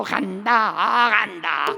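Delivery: loud, slow lament of a ghost being evicted; bitter ghost wailing its exit. Retold or imitated. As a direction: moan and complain as you go. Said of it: "아주 그냥 시원시원하죠".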